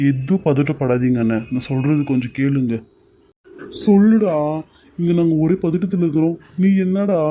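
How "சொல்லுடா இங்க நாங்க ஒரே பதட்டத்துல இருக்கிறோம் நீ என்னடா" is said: anxious demand. Acted. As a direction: press him hard for the news. Anxious brother demands news.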